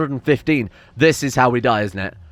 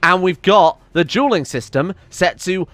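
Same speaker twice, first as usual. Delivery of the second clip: ranting in rage; 4 semitones higher than usual. Real, not acted. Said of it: "I'm rage quit".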